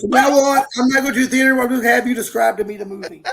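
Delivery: rushed and giggly, enjoying the punchline; fast laughing retake of the joke. Real, not acted. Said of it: "That's hilarious".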